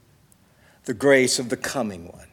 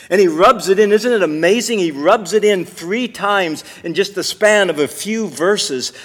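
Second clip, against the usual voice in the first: higher, driving pulpit delivery; raised, emphatic sermon voice; impassioned preaching; 6 semitones higher, 7 dB louder than usual. Real, not acted. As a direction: preach it with urgent insistence. Preaches with rising force.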